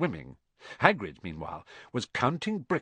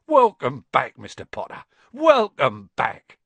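tearful welcome; 7 dB louder than usual. A narrator's reading. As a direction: greet a long-lost hero, overcome. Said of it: "tears in his eyes".

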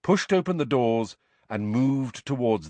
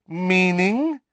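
curt, louder high question; sharp demand; 9 semitones higher, 6 dB louder than usual. A narrator's reading. Wife cutting off her husband, icy demand. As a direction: cut him off coldly.

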